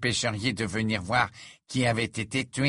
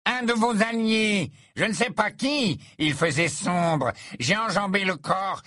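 put-on much higher, panicky young voice; voice an octave up; 8 semitones higher than usual. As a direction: keep the voice pushed high in fear. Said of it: "d'une voix qui sembla monter d'un octave".

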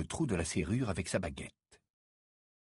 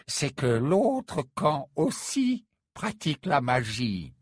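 friendly, with a small laugh; amiable; 2 semitones higher than usual. Acted. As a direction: gently break the bad news. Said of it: "d'un ton aimable". (d'un ton aimable)

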